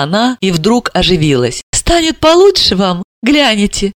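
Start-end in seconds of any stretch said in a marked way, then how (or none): 1.7-3.9 higher, bragging a little; boastful. Acted. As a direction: show off the house. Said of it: "с хвастливыми нотками".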